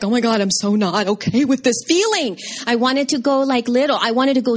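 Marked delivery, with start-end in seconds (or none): 0.0-2.4 mock panic. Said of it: "you feel like".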